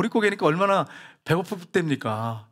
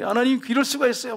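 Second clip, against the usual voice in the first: mock protest to God, pitched higher; retold complaint; 6 semitones higher than usual. Man grumbling to God in prayer, retold complaint. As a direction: complain upward at a higher pitch, lightly acted. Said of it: "하나님을 향해서 원망하고 불평하는데".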